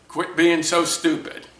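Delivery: mock a father's angry put-down, firmly. Father belittling struggling son, retold in mild anger. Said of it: "in an angry voice".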